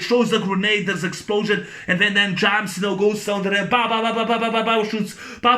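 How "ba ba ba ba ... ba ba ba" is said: rattling run of ba-ba gunshots; rapid-fire vocal gun noises; imitated gunfire. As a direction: mouth a burst of automatic fire. Imitating gunfire in film retelling.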